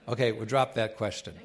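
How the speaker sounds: laughing through the words, backing down. Real, not acted. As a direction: chuckle it out as you drop the subject. Backing off soccer question, laughing.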